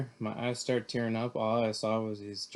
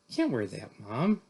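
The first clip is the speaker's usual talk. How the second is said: mild whine to mom, lifting on "Mom"; a child's complaint, pitch rising at the end; whining; 4 dB louder than usual. Acted. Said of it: "I whined".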